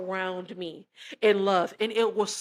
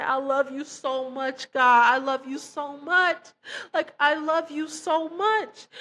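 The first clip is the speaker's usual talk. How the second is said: higher, pleading, on the edge of tears; tearful; 5 semitones higher, 4 dB louder than usual. Retold or imitated. Telling God she loves him, tearful and overwhelmed. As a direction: pour it out to God, choked up. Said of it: "I just remember just starting to cry".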